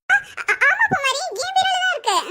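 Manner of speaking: hesitant start, pitch creeping up; nervous cover-up. Acted. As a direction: stumble into an uneasy lie. Covering up the missing jewellery.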